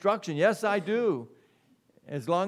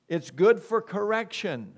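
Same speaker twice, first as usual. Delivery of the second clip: good punched high and loud; emphatic proclamation; 4 semitones higher, 4 dB louder than usual. Real, not acted. Preacher to congregation, emphatic raised proclamation. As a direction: proclaim it's good for correction. Preacher repeats verse phrase.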